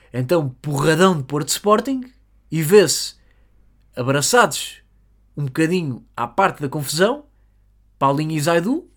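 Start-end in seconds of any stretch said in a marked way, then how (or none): none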